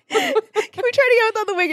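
high, laughing impression of director; laughing mock director. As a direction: squeak it out through a laugh. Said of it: "they're like".

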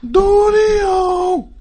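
shouted, high DJ call; radio voice. Acted. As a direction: belt the name like a radio host. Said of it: "radio voice".

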